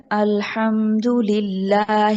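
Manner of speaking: slow Quran recitation, long vowels. Shown as a demonstration. Teacher reciting for Saadia to repeat. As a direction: recite it slowly for the student.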